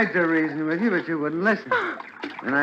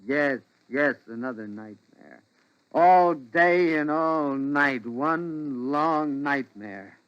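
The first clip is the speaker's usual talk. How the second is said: weary, drained; slower than usual. Acted. Weary husband answers nagging wife.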